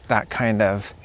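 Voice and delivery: ordinary talk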